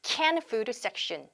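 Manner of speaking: can food section with no forced D after can; slow model of can food section, D left silent; natural linking. Shown as a demonstration. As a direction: run can straight into food. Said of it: "그냥 자연스럽게 발음하시면 되고요".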